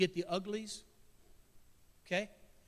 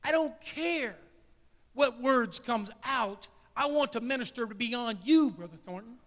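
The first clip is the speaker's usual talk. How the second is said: God's voice, rising; 3 semitones higher, 5 dB louder than usual. Retold or imitated. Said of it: "And he says".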